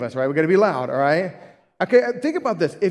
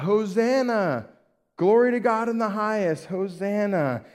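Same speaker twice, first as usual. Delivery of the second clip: crowd's praise, pitched a little higher; imitated crying out; 4 semitones higher than usual. Preacher voices crowd hailing Jesus on the donkey, lightly crying out. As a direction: call it out in a restrained mock shout. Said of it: "they're just crying out".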